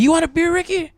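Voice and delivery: very high imitated call-out; mock heckler call. Homie offering the comic a beer mid-show, high imitated holler.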